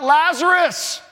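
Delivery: loud, slow, commanding call; yelling out. Retold or imitated. Preacher voicing Jesus calling into the grave, loud commanding call. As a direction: call the dead man out of the tomb. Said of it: "He yells out".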